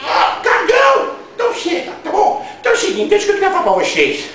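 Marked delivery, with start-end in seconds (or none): 0.1-1.2 cagão yelled out, drawn out; shouted insult. Acted. Ranting host yells cagão at the cowards, shouted. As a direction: bellow cagão at the viewers.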